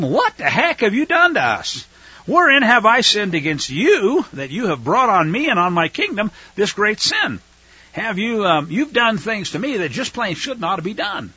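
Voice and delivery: a touch of indignant anger in the king's voice; righteously angry. Acted. King reproaching Abraham, mild righteous anger. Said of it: "I think he's righteously angry".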